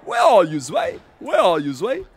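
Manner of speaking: calling out, the name squeaked very high; Auzio impression. Streamer calls for his friend, name squeaked high. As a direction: hunt for the friend. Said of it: "The Auzio impression?".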